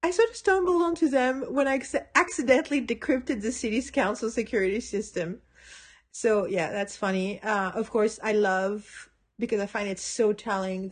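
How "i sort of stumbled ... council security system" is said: quoting Willow. Retold or imitated.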